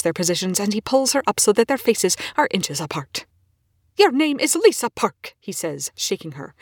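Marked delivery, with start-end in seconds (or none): 4.0-5.3 loud, high, urgent cry to snap her out; urgent shout. Acted. Scientist shaking his possessed colleague, loud urgent shout. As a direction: shout her name to wake her.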